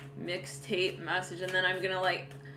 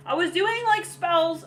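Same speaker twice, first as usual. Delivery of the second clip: higher, louder admission; sheepish confession; 7 semitones higher, 6 dB louder, slower than usual. Retold or imitated. Ex confessing to the querent, higher and louder. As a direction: blurt out the secret, pitched up.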